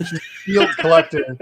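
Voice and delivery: laughing. Real, not acted. Joking to a friend about her mom, laughing. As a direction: let the laugh carry the joke. Joke said twice, first laughing.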